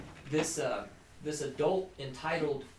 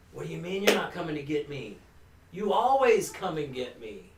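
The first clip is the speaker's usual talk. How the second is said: louder, rising outraged disbelief; flipped out; 3 semitones higher, 7 dB louder than usual. Retold or imitated. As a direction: blurt it out in shocked anger. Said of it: "And I flipped out".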